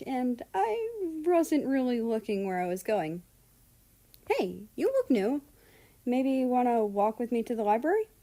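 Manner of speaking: put-on bubbly American kid, eager to make a friend; cheerful America. America apologising and inviting Russia along, cheerful and eager.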